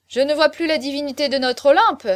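exclaiming. A narrator's reading. Chaverny looking round the room for his divinity, exclaiming. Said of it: "s'écria-t-il".

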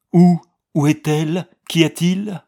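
high and loud, startled and worried; jolted awake, asking in alarm. A narrator's reading. (inquiet, plus aigu et plus fort)

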